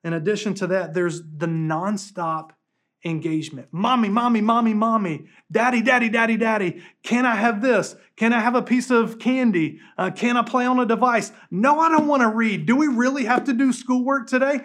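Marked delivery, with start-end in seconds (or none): 3.7-14.6 put-on high, loud whiny kid voice; pestering child. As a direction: whine like a nagging child. Pastor voices kids nagging parents.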